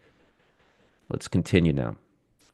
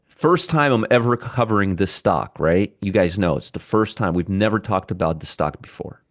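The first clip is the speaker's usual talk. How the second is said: dry sarcasm, starting a little raised and settling; sarcastic. Real, not acted. Host teasing viewers about an often-covered stock, sarcastic. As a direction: feign that it's all news to you. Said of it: "I'm being sarcastic".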